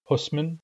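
husman said slowly and carefully for learners; Nuu-chah-nulth word. Shown as a demonstration. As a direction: pronounce husman clearly, syllable by syllable. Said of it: "the word for kelp is husman".

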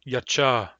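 plain Y opening "Yacha". Shown as a demonstration. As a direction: start "Yacha" on an ordinary, unbroken Y. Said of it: "Plain Y".

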